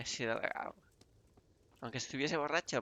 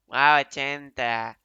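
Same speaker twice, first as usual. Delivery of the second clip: delighted surprise; 10 dB louder, slower than usual. Real, not acted. Surprised by a bigger coin offer.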